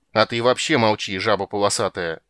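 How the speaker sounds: a mild cranky rat squeak; grumpy squeak. Acted. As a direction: snap at the shark. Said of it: "сварливо пискнул крысюк".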